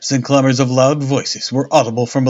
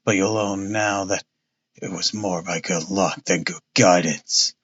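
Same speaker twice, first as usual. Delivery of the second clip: lower, pompous police inspector; a self-satisfied policeman talking down; blustering inspector; 4 semitones lower, 3 dB quieter than usual. Acted. Jones voiced in story.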